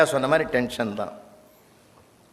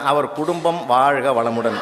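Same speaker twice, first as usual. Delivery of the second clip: reading student's blessing; 3 semitones lower, slower than usual. Retold or imitated. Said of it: "ரெண்டாவது எழுதிக்கிறான்".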